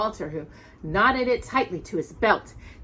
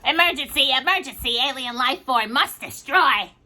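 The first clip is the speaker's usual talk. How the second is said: higher, clipped mechanical robot voice; 5 semitones higher than usual. Acted. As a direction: announce it like an old machine. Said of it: "he spoke in an old mechanical voice".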